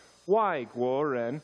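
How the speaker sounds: 外国人 said slowly in Mandarin tones. Shown as a demonstration. Pastor leading the church to repeat, slow Mandarin tones. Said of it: "everybody try to say it with me".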